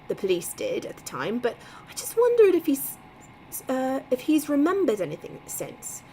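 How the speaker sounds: put-on second take, a firmer Boston accent; Boston accent, asking the retired cop; a retake in Boston accent. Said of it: "to do this Boston accent".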